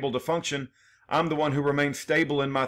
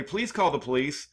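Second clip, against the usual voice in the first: said offhand and unhurried, a touch softer; casual everyday request; 3 dB quieter than usual. Shown as a demonstration. Showing how his plea was recast as casual, offhand and easy. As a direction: toss it off like a dinner-table request. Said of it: "like it was an everyday thing to conversationally say".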